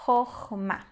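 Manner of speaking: "Chokhmah" split khokh-mah, O then A; demonstrated reading. Shown as a demonstration. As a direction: read out "Chokhmah" with a break between syllables. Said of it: "a gente vai ler como A". ("Chokhmah" em sílabas separadas, final em A)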